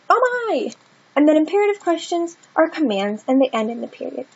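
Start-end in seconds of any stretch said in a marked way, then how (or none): 0.1-0.7 high gasping "Oh my!"; surprised exclamation; teacher acting astonished; exclaiming. Shown as a demonstration. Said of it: "someone exclaiming something".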